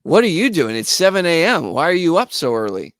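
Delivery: a friend startled by an early call; imitating groggy Tony. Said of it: "He's like".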